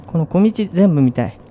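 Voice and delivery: ordinary talk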